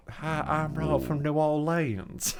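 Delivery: lightly put-on New Orleans accent, slow and soft; shy first go at a New Orleans accent. Shown as a demonstration. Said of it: "do the accent".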